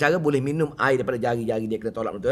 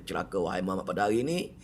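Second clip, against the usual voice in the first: much softer, lower cursing line; hushed curse; 7 semitones lower, 7 dB quieter, faster than usual. Retold or imitated. Abu Lahab quietly cursing the Prophet, much softer. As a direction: mutter the curse under the breath. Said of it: "maka dia kata".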